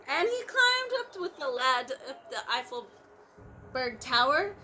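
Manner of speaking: lively picture-book narration; bouncy read-aloud storytelling; storybook reading. A narrator's reading. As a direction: read it out to the children. Reading Horton aloud to class.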